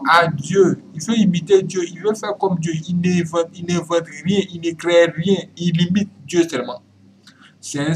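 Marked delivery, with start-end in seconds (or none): 0.1-6.8 insistent sermon delivery, hitting each phrase; emphatic preaching. Real, not acted. Preacher denouncing the devil as God's imitator, emphatic preaching. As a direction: denounce it in a raised, driving voice.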